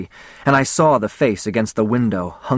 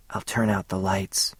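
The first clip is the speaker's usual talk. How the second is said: much softer, hushed; whisper; 6 dB quieter than usual. A narrator's reading. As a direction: say it softly, intimately. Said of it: "she whispered".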